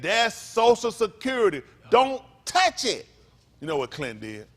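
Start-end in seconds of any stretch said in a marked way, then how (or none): 0.0-3.1 slow, higher and louder, laying down the law; stern warning. Retold or imitated. Gingrich warning Clinton off the surplus, slow loud scolding. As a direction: Gingrich scolding Clinton, each word slowed and pressed. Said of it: "He said".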